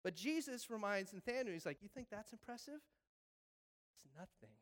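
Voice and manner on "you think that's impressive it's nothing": softer offhand dismissal. Retold or imitated. Jesus downplays the trick.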